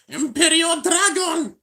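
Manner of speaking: high, slow shouted battle call; launch shout. Retold or imitated. Copying the anime launch call, full shout. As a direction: yell the attack name like a Blader.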